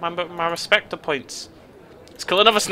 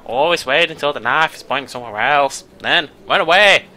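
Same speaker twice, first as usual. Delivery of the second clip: bizarre voice; 5 dB louder than usual. Acted. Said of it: "in a bizarre voice".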